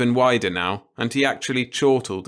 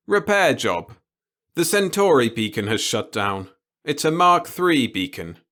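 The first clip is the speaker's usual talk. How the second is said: put-on gleeful old boss; 4 semitones higher, 4 dB louder than usual. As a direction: savour every word of it. The boss voiced in story.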